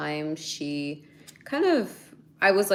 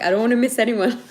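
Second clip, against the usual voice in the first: laughing self-quote; 6 semitones higher, 9 dB louder, faster than usual. Retold or imitated. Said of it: "I'm like".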